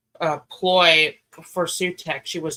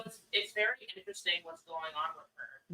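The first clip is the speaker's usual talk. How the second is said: yelling across the room; 16 dB quieter than usual. Real, not acted. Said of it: "Nobody can hear you yelling across the room".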